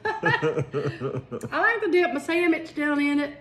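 laughing through I like to dip my sandwich; slow and amused, sandwich said as sammich; laughing slow repeat. Real, not acted. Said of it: "Your what?".

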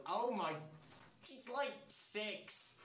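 high, stretched-out disbelief; appalled gasp of disbelief; shocked. Real, not acted. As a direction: recoil in horror at the line. Shocked reaction while reading fanfic.

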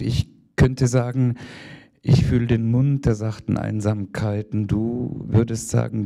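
measured, rhythmic poetry recital; poem reading. Acted. Reads her poem aloud.

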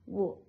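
"wo" said alone as the second syllable. Shown as a demonstration. Teacher gives a learner the second syllable of owls, "wo" alone. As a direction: sound out just "wo", short and separate. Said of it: "Second one".

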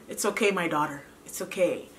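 tender comfort. Retold or imitated. God comforting her, voiced tenderly.

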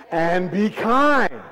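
slow, drawn-out lead reading; uplifted voice. Shown as a demonstration. Preacher leading the congregation in reading, uplifted voice. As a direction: lift the voice and stretch KIND. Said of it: "read with uplifted voices".

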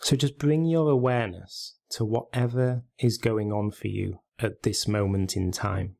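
measured meditation guide, long pauses between phrases; guided meditation. Real, not acted. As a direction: gently guide listeners into stillness, leaving space after each instruction.

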